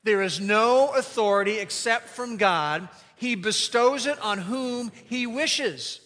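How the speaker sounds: recited aloud again. Shown as a demonstration.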